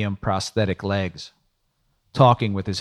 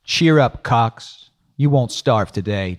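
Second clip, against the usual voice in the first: bright sudden cheer, louder on cheer up; upbeat; 3 semitones higher, 6 dB louder, slower than usual. Acted. Trong cheering up Cox over lunch, upbeat. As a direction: lift the mood, louder at the start. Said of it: "suddenly more upbeat".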